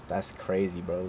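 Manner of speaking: low, soft, laid-back reaction; understated imitation of an easygoing boss; chill manager. Chill manager reacting to the firing, laid-back imitation. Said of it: "Like, he's super chill".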